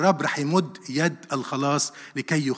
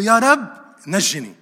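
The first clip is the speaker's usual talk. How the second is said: retold cry for help, loud and high at first; 4 semitones higher, 6 dB louder, slower than usual. Peter calls to the Lord as he sinks, crying out. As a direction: call out a plea, dropping off on the last word. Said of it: "فصرخ بطرس قائلًا".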